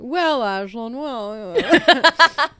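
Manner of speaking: hammed-up news anchor delivery; bad newscaster impression. Shown as a demonstration. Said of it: "very bad newscaster voice".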